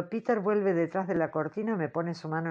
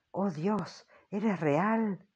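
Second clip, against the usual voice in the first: trembling whisper; much slower than usual. Acted. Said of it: "digo en un susurro".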